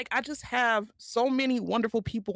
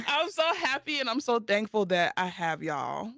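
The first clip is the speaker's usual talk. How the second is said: teary. Real, not acted. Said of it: "Who cut onions?".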